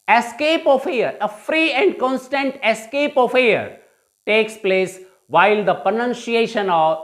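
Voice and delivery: slow, spaced teacher dictation; slow classroom dictation. Shown as a demonstration. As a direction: read it out slowly for students to copy.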